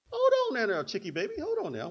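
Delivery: high-pitched cheeky kid protest, hammed up; mock backtalk. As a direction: imitate a sassy child stalling mom. Imagines kids talking back to mothers.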